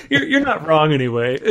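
grudging agreement through laughter; laughing concession. Retold or imitated. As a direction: admit it while still laughing. And I'm like.

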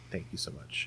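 hushed whispered thanks; whispering. Real, not acted. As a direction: breathe a soft thank you.

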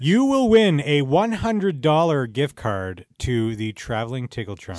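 slow showy prize announcement; game show announcer. Acted. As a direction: boom it out like a game show host.

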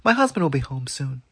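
high frightened scream at a stranger. Acted. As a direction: shriek it out in alarm. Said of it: "his wife screamed".

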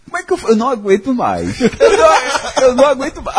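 words dragged out through laughter; can barely get it out for laughing; laughing helplessly. Real, not acted. Telling friends the dinner story, laughing too hard to speak. Laughing while recalling torture.

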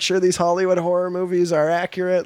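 a hint of an indignant fact checker; imagined fact-checking historians. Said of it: "this committee of historians".

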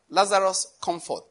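calm, even command without raising the voice; spoken gently. Shown as a demonstration. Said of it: "Jesus just spoke gently".

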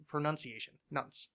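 "pronunciation" with NUN in the middle, then "Nunce" alone; "Nunce" rhyming with dunce; correct pronunciation. Shown as a demonstration. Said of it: "like the way I just said it".

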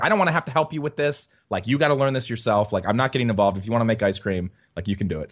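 mock put-your-foot-down tone, easing off; retold refusal. Son acting out mom refusing to help dad, retold refusal.

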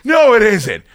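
high, laughing what; startled disbelief. Retold or imitated. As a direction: jolt awake in laughing disbelief. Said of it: "And I was like".

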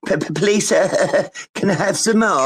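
high, stammering beggar's plea; mock Olivia Twist. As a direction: plead like a stuttering little orphan, hammed up. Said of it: "You sound like Olivia Twist".

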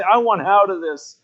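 retold plea, only a touch of tears; mild weeping plea. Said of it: "he started to weep and say".

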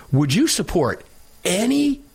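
imitating the reporter's loaded rise; reporter's inflection. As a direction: pitch "any" up high like a loaded question. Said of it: "you catch the inflection in her voice?".

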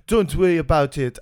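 failed attempt at a French accent; badly faked French accent. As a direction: imitate the roommate in poor French-accented English. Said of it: "I can't do a French accent".

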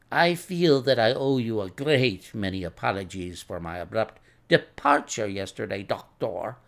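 lightly voiced apologetic patient; lightly put-on voice of a courteous patient; Russian patient. Patient apologising to the doctor, lightly voiced.

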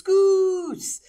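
loud call across the house. Retold or imitated. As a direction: yell the nickname. Calling son up the stairs.

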